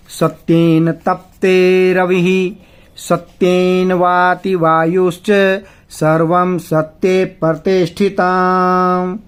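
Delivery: slow Sanskrit chant; shloka recitation. Shown as a demonstration. Teacher reciting the second verse to students, slow chant. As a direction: intone each word evenly.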